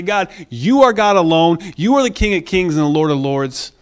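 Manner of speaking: mild, reverent petition; humble prayer. Acted. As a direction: pray humbly, easing down at the end. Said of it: "We come to him humbly and we say".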